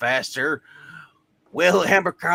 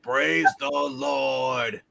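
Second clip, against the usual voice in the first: mock praise; 5 semitones lower, much slower than usual. Mock religious exclamation.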